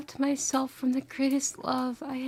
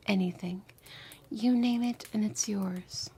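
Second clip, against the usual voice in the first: tender whisper; 3 semitones lower than usual. Acted. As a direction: whisper it like a lover's confession.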